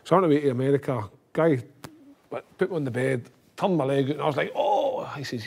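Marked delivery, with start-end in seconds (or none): 4.5-5.0 retold high-pitched "oh" of pain; mock pained "oh". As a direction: yelp an imitated "oh", pitched way up. Doctor turns his injured leg out.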